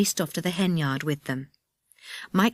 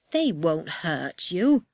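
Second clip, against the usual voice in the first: slow, lightly voiced dismissive man; man's voice; slower than usual. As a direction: reassure her slowly, a little dismissive. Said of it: "said a man's voice".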